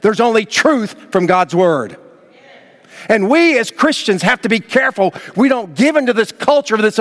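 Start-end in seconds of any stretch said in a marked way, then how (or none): none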